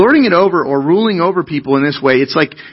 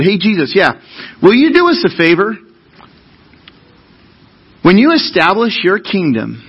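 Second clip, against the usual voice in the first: wheedling brothers; 5 semitones higher than usual. Retold or imitated. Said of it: "they speak up and they said".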